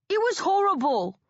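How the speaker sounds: high loud upset cry; hurt and indignant, loud; upset shout. A narrator's reading. Twin agreeing loudly.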